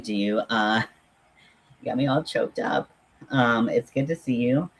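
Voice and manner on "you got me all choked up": normal talking voice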